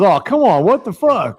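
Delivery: loud, high whine of disbelief; hammed-up indignant outburst; mock exasperated protest. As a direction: imitate a man caught out and complaining. Dango protesting the driver's verdict.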